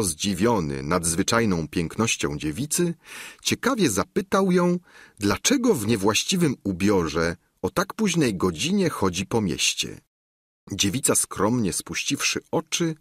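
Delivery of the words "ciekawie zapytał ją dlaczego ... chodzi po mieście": ordinary delivery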